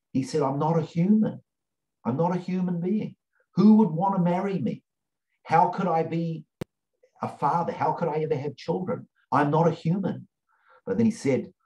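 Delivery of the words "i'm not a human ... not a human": higher, pleading retelling of a survivor's despair; anguished plea. Retold or imitated. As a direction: lift the voice as if begging to be understood. Retold survivor's anguished confession.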